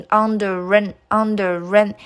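"under rain" as under-ren, d of and dropped; linked pronunciation. Shown as a demonstration. Teacher explaining under plus and, "under rain" said linked. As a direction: run "under rain" together as one unit. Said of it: "Under和and连读成".

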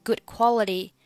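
"Good quality" with the d unreleased; silent d. Shown as a demonstration. Teacher modelling the phrase, "Good" without its final d. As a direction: stop "Good" short before "quality". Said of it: "Good末尾的不发音".

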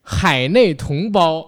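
very slow, grand host greeting; cheerful new year wishes. Pretend. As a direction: draw out each word like a gala host. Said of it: "我以为你说咱模仿的这个开场呢".

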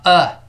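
呃 as the neutral second vowel of salad; demonstrated "uh" vowel on 呃; schwa. Shown as a demonstration. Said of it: "然后后面发呃".

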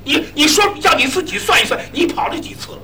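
lightly voiced old lady scolding son-in-law. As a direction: nag like a fed-up mother-in-law. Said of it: "老太太". (老太太数落姑爷，语气埋怨)

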